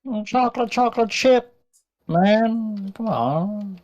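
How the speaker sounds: delighted. Real, not acted. Savouring a treat.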